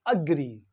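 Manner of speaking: "agree" starting on a short uh, then a falling GREE; schwa pronunciation. Shown as a demonstration. Teacher repeats agree after explaining schwa sound, careful pronunciation. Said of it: "it is schwa sound".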